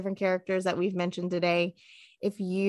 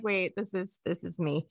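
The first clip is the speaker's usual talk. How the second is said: mock realization; 3 semitones lower, 6 dB quieter than usual. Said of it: "I'm like".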